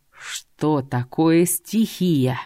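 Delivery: slow words through clenched teeth; through gritted teeth. Acted. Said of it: "процедил сквозь зубы".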